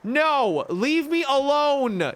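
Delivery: loud, slow frightened cry; panicked yell. Real, not acted. Creature attacking the player.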